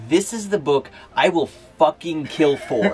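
hammed-up knightly vow, slowed on the second line; mock paladin oath. Imitating a friend pushing a novel as a paladin. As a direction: swear on the book like a zealous crusader. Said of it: "put on paladin armor".

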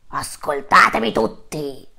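loud, slow, commanding lion voice; roaring lion king. Acted. Lion king calls all the animals to listen, roaring. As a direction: bellow it to the whole savanna. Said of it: "mettendo un ruggito".

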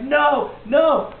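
high, loud refusal; mock protesting cry. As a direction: refuse with hammed-up outrage. Acted Jesus refusing.

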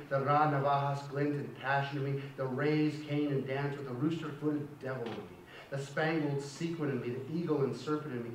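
steady, measured poetry reading to the class; poem reading. Acted. Teacher reading a poem aloud to the class, measured. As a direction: read the poem out, letting each line land.

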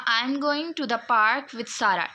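slow, phrased in three chunks; split into intonation units. Shown as a demonstration. Teacher shows intonation units in a sentence, slow and chunked. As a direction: pause between going, park and Sara. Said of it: "I am going" एक intonation unit है".

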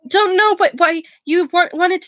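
lightly voiced nervous stammer; stuttering Quirrell. Quirrell stammering to Snape, lightly nervous. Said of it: "he was stuttering worse than ever".

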